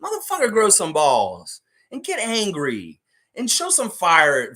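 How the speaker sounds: loud, slow angry rant. Real, not acted. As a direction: demand fire, loud and slow. Ranting at coach.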